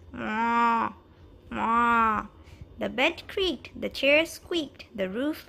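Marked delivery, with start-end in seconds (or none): 0.1-2.3 louder moo; cow moo. Acted. Narrator voicing the cow, mooing. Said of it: "The cow said".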